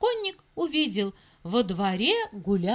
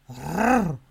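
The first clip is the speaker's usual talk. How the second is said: low dog growl; 7 semitones lower, 4 dB louder than usual. Acted. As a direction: growl like a big shaggy dog. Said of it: "зарычал пёс".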